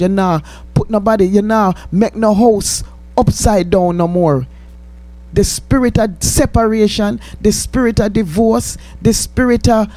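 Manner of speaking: fervent rising rebuke, building in force; preaching rebuke. Acted. Host rebuking Satan on air, fervent preaching. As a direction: cast the devil back down his hole.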